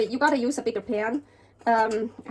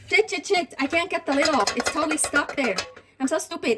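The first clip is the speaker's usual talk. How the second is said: frustrated; 3 semitones higher than usual. Real, not acted. Lid stuck, frustrated swearing.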